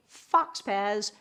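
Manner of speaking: "fox pas" deliberately said as fox pazz; mispronounced faux pas. Shown as a demonstration. Teacher joking about the blunder, "fox pas" mispronounced as fox pazz. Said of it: "by mispronouncing the word faux pas".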